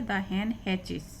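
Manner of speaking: slow, separated words; slow reading aloud. Shown as a demonstration. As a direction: read it out word by word. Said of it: "teacher reads slowly".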